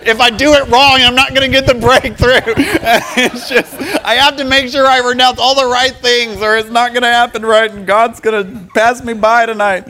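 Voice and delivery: high, loud, worked-up worrying; mock anxious striving. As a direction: parody your own frantic striving through laughs. Mocks own anxious striving.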